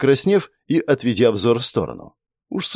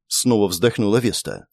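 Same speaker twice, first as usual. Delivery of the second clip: usual speaking voice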